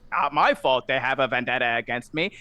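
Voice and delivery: a put-upon little gnome voice. Acted. Gnome behind the bar greeting a newcomer, high squeak.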